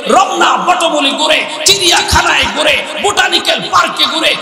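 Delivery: building shouted sermon list, quickening; fiery preaching. Acted.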